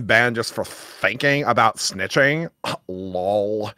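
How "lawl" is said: "Lol" said as one word, like "lawl"; chat slang pronounced. Shown as a demonstration. Reading her chat spelling aloud, "Lol" said as "lawl". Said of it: "as if it is an, intended on being pronounced".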